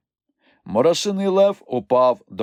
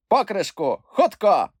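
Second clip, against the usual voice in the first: higher, hurried shout for the lid; urgent call; 11 semitones higher, 4 dB louder than usual. A narrator's reading. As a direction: yell to the friends. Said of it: "заволав Мумітроль". (квапливий вигук)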